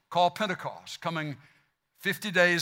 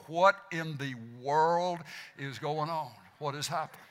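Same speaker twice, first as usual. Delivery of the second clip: quietly baffled; 6 semitones lower, 9 dB quieter than usual. Acted. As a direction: act out a stunned listener, dropping low and soft. Acts out baffled listeners' reaction.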